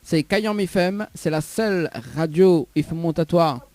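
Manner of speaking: a hint of an announcer reading the slogan. Shown as a demonstration. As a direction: spell out the station jingle for the listener. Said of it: "Alors, écoute bien".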